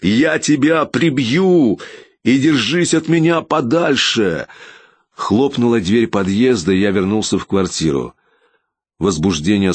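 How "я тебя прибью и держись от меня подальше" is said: higher, slow menacing yell; furious warning; shouted threat. A narrator's reading. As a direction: bellow it down the stairwell. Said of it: "прокричал я вслед".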